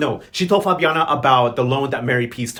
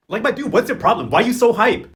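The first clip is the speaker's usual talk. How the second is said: higher, louder disbelief; exasperated; 5 semitones higher, 3 dB louder than usual. Real, not acted. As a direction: call him out, incredulous. Outraged at the banker.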